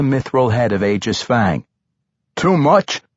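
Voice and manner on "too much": high, alarmed query; frantic question. A narrator's reading. Barbarian questioning halfling as door bangs open, frantic. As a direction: ask it urgently, voice lifted. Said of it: "Wulfgar asked frantically".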